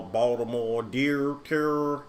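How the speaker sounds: drawn-out Baltimore "dear", like "durr"; Baltimore accent. Retold or imitated. Mocking the Baltimore singers in their accent. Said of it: "that damn accent gets me every time".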